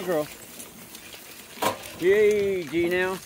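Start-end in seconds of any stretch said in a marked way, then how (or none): 2.0-3.2 soothing. Real, not acted. Calming horse.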